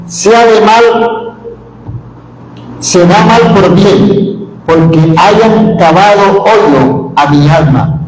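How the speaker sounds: slow, deliberate Bible reading; slow solemn reading; solemn scripture reading. Acted. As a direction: read the prophet's words with weight.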